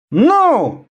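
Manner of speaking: high, drawn menace; threatening. A narrator's reading. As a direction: press them with a threat. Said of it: "с угрозой произнёс".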